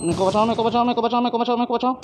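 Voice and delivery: high, rising cries for help; help cry. Real, not acted. Player pinned down begging teammate to save him, high cries. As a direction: plead to be saved.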